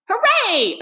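high, loud joyful cheer; excited cry. A narrator's reading. Rat finding something in the snow, loud joyful cheer. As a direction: shout for joy at the find. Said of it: "Suddenly the rat cried".

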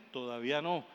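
cool and low; calm refusal. Acted. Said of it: "y dice". (el hombre responde con calma, voz baja)

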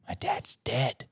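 hushed, unvoiced story whisper; eerie whisper. Co-host retells the girl's creepy answer, whispering. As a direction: whisper the chilling reveal.

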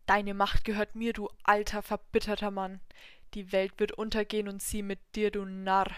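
loud, gloating devil voice; triumphant devil. Acted. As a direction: gloat over the fallen god. Devil triumphs over god.

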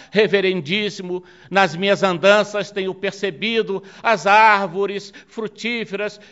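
acted lament in full preaching voice; tearful plea. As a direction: beseech the Pope with sustained emotion. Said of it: "em prantos, diz".

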